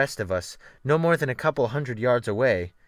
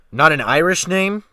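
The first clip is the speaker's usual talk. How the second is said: sharp snap; 5 semitones higher, 8 dB louder than usual. Acted. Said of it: "the captain snapped sharply".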